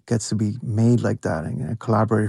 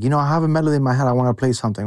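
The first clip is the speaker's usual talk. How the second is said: dad's quick remark; 3 semitones higher, much faster than usual. Retold or imitated. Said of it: "he was just like".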